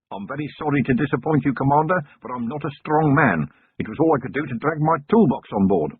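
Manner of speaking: nervous chicken farmer. Acted. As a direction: explain yourself, anxious and wordy. False apologizes.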